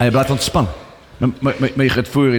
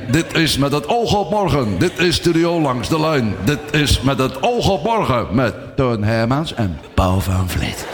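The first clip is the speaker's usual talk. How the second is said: radio announcer impression; slower than usual. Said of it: "die achter zit Radio één".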